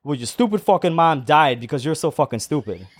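lightly imitated Puerto Rican man, dead serious; deadpan Puerto Rican accent. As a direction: deliver the insult in a mock Puerto Rican accent. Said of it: "dead ass looks at me".

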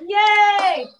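high, drawn-out cheer; happy high-pitched yay; delighted cheer. Real, not acted. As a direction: cheer the good news. Cheering at news of next book.

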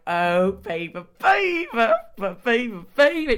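put-on high cooing baby, baby; swooning gush. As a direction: gush like a smitten fan. Swooning over lookalike.

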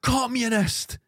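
sharp mock yell of communist; retold shout. Stranger yelling at him on his bike, mock shout. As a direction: shout it like an insult from the street. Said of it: "just shouted".

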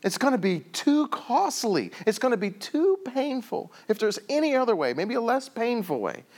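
acted desperate praying; pleading prayer. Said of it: "he's praying to God".

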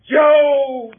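loud, high call; shouting a name. Acted. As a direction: yell to wake him up. Shouting for the sleeping boy.

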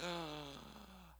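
sharp startled gasp; panicked gasp. Retold or imitated. Person realising fear, acted gasp of panic. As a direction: gasp as if suddenly afraid.

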